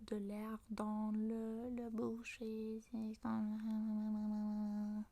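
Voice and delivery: drawn-out nasal drone; nasal demo. Shown as a demonstration. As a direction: hold the air in the nose and stretch it out. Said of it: "si on parle comme ça avec le, le nez".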